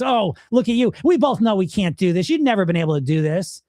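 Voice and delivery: jeering doubter, starting high and settling; sarcastic inner voice. Acted. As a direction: taunt like a sarcastic inner critic. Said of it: "when I hear the sarcastic voice".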